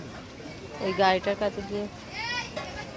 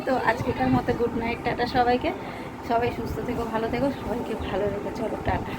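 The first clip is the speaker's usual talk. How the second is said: out of breath. Real, not acted. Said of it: "হাঁপিয়ে গেছি, সিঁড়ি দিয়ে উঠছিলাম".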